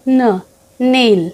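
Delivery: ন drawn out slowly before নেইল; slow phonics sound. Shown as a demonstration. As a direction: stretch the ন sound for a child. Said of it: "next হচ্ছে এন". (ধীরে ন ধ্বনি)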